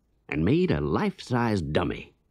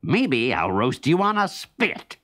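Brer Fox; 6 semitones higher than usual. Acted. Fox threatens rabbit.

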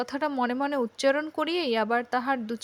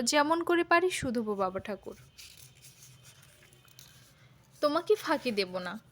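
eager plea; 5 dB quieter than usual. A narrator's reading. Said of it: "ব্যগ্রস্বরে বলিয়া উঠিল".

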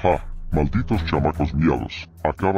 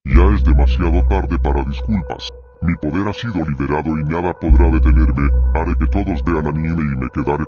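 loud villain threat; 4 dB louder than usual. Acted. Villain proclaims his power.

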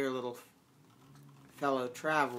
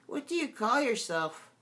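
higher, soft fawn voice; soft sweet fawn; 9 semitones higher than usual. A narrator's reading. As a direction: ask gently as the shy fawn. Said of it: "Such a soft, sweet voice it had".

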